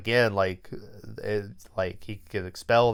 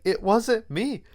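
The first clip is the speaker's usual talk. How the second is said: retold protest; 10 semitones higher, slower than usual. Kid protests to accusing teacher.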